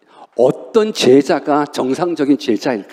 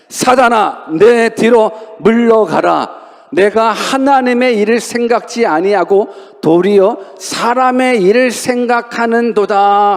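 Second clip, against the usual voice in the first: scripture read aloud; 4 semitones higher, slower than usual. Shown as a demonstration. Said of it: "같이 한번 크게 읽어봅시다".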